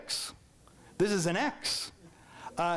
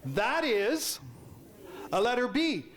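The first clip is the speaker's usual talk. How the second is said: teacher correcting; slower than usual. Retold or imitated. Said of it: "what did Missus Hayes say to me".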